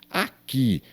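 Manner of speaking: "Aqui" split as a, QUI; stress on last syllable. Shown as a demonstration. Teacher shows pupils the strong syllable, stress on last syllable. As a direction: lean on the final QUI of "Aqui". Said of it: "o que é forte".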